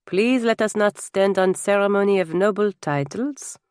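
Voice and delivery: put-on a gracious Lafayette figure with a French accent; lightly voiced, courteous French guest; lightly accented French nobleman. French guest waves off ceremony to hosts, lightly accented and gracious.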